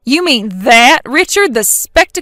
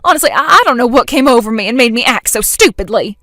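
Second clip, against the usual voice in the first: louder, begging and fast; pleading; 5 dB louder than usual. Acted. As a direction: plead for any way out. Jen begging for rescue.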